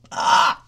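short mock cry of pain; acted pained gasp. Rider landing on the bike seat, mock pained gasp.

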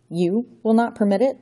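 put-on villain scoffing at the boy's defiance; mocking echo. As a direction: throw his words back incredulously. Count mocks Johnny's words.

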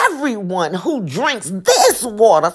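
EVERYONE and THIS both leaned on; preacher hammering home EVERYONE and THIS; emphatic repeat. Shown as a demonstration. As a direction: stress THIS in THIS WATER, falling at the end. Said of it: "I gotta put some emphasis".

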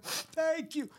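high, choked-up mock thank you, pitch jumping way up; imitating a father fighting back tears; a light, half-hearted teary voice; mock crying. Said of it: "go, crying like".

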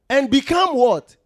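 prompting question. Real, not acted. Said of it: "preacher prompting congregation".

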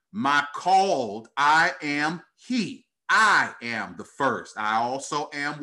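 slow, declaimed scripture reading. Acted. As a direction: proclaim the verse with weighty, drawn-out phrases. Reads scripture aloud to congregation.

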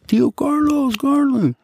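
high distant call. Retold or imitated. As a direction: call up from the tier. Calling from the upper tier.

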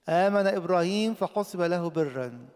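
loud, high and slow verse; preacher proclaiming the verse slowly and loudly; slow proclamation. Acted. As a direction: lean on every word as you proclaim it. Preacher quotes scripture.

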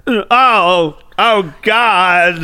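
badly faked American-accented frightened hostage; Alan Rickman. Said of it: "American accent voice when he's trying to pretend".

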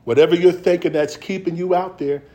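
measured scripture reading that swells into full preaching. Acted. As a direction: preach it to the congregation, rising on the promises.

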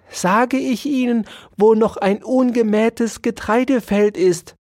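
high, squeaky mouse, prim and bargaining; offended mouse. Acted. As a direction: play the hurt little mouse who wants a deal.

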